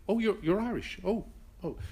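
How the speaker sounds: high, bright-eyed mock delight at hearing Irish; delighted recognition. Strangers abroad learning he is Irish, imitated with mock delight. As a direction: gush like a stranger charmed to meet an Irish person.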